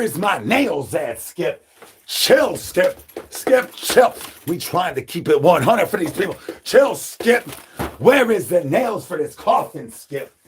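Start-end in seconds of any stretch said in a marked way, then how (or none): 2.1-4.1 much higher yelp at Skip; high call telling Skip to chill. Acted. Calling out to Skip. 6.6-10.3 much higher yelp at Skip; high call telling Skip to chill. Acted. Calling out to Skip.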